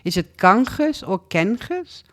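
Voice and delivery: first "Ganges" KAHN-khes, second "Ganges" KEN-khes; two pronunciations. Real, not acted. Host asks which festival pronunciation is right, two pronunciations. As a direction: contrast ah and eh in "Ganges ... Ganges", rising. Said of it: "I don't know how you pronounce".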